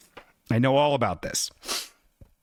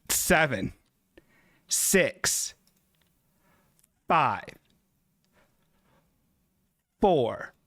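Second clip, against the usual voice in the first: mock degrading countdown; slower than usual. Degrading countdown for viewer request.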